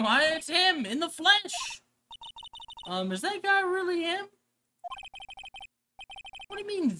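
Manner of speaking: stare at him in disbelief; astonished girl sidekick. Acted. Sidekick meeting the client in person, high and astonished.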